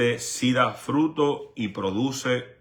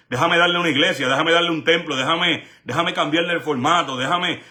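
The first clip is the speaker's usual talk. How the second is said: higher, louder sly offering voice; mocking coaxing offer, pitched up; mock tempter's voice; 4 semitones higher, 3 dB louder than usual. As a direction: parody a smooth-talking institution buying people off.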